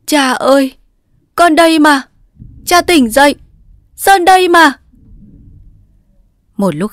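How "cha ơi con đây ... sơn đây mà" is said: high, loud, sobbing call; sobbing plea. A narrator's reading. Daughter shaking her unconscious father, sobbing and calling loudly. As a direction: shake him awake, weeping as you call. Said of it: "lay gọi nức nở trong tiếng khóc".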